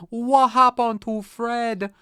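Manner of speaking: "What happened to Fred?" yelled high and slow; high, shouted alarm. Real, not acted. Player cries out about missing Fred, high alarmed.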